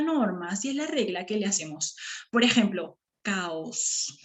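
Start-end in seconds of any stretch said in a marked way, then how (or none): 3.2-4.2 caos slow, a and o in separate syllables; hiatus demo. Shown as a demonstration. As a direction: break caos into ca and os. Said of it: "La A de la O se separaron". (caos separado en dos sílabas, ca-os)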